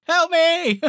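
high, loud, laughing help me; laughing high squeal. Retold or imitated. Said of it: "His pitch is just".

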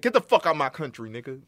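mock furious Obama. Imagining Obama ordering Russia out, mock shout. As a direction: bark it out as a pretend Obama. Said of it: "nigga said".

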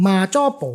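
"มาจ้อโป" said the Hokkien way; Hokkien pronunciation. Shown as a demonstration. Expert showing guest the Hokkien name, "มาจ้อโป" pronounced as Hokkien. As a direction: say "มาจ้อโป" with Hokkien sounds, ending on "โป". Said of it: "เป็นวิธีออกเสียงแบบคนฮกเกี้ยนนะ".

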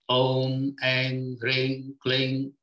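Om, Ang, Ring, Kling each held on an even, steady tone; intoning seed syllables. Shown as a demonstration. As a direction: sound out Om, Ang, Ring, Kling like short chanted seeds. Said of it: "like this".

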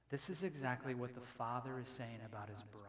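hushed whisper to the congregation. Real, not acted. Preacher to congregation, whispering. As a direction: drop to a whisper to make the point. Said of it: "unvoiced whisper".

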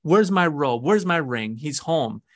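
hammed-up excited yell of a glad father; mock scream. Father screaming orders to servants as son returns, mock joyful yell. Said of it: "screaming out".

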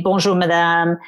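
"Bonjour, madame" in a polite French greeting. Shown as a demonstration. Englishwoman shows her polite French greeting. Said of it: "I don't just say bonjour".

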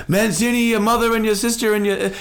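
high honking heckler yell; goose voice. Retold or imitated. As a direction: taunt the player in a goose honk. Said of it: "standing up screaming".

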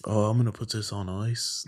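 a clumsy try at British, played down; bad British accent. Shown as a demonstration. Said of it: "my bad accent".

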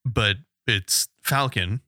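Falcon slow, short A as in cat; Falcon said FAL-kun, drawn out; American Falcon. Shown as a demonstration. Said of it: "like Americans say Falcon".

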